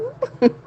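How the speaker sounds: short, high-pitched giggle; high squeal of a laugh. Real, not acted. Laughing it off after admitting it went wrong. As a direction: let a sudden high laugh escape.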